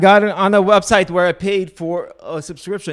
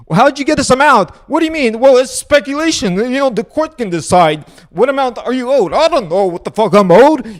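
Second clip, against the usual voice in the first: mock deposition; 5 semitones higher than usual. Host parodies the guest being questioned about the lawsuit, high and whiny. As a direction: ham up a petulant guy demanding everything.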